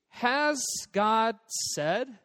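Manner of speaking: HAS GOD SAID drawn out slowly, high, rising at the end; questioning "has God said". Retold or imitated. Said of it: "say that as a question".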